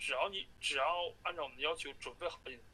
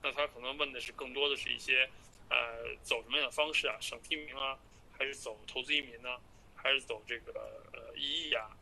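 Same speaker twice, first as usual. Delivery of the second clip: phone call. Real, not acted. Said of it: "继续听".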